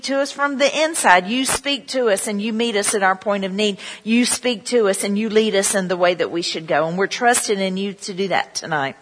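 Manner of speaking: earnest pastor's prayer to the Father. Acted. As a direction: pray it sincerely over the congregation. Pastor prays before sermon.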